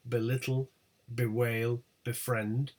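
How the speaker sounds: "Belittle, bewail, befriend" each stressed right after the prefix; light "be-", weight on the next syllable in "Belittle, bewail, befriend"; second-syllable stress. Shown as a demonstration. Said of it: "always have stress on the second or later syllable".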